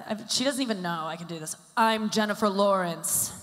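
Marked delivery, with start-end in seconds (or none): 1.8-3.3 lightly voiced, slow, careful Jennifer Lawrence; Jennifer Lawrence impression. Stand-up imitating her friend Jennifer Lawrence, barely changed voice. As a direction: say her own name like the actress. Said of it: "I can do an impression of her".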